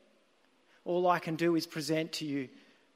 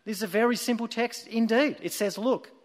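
louder, higher pulpit voice; lay preacher; 4 semitones higher, 5 dB louder than usual. Acted. Lay preacher expounding his simple text to twelve people, raised preaching voice. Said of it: "And then the preacher continued".

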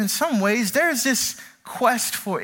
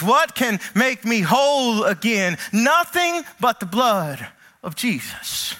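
psalmist's hymn; slower than usual. Acted. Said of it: "I hear the psalmist say".

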